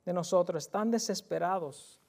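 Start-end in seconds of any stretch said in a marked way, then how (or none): 0.0-0.6 louder, higher plea that fades at the end; desperate cry. Acted. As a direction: shout to the Lord as if dying. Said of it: "un grito de desesperación, de que van a morir". (clamor desesperado de los ciegos al Señor, más fuerte y agudo)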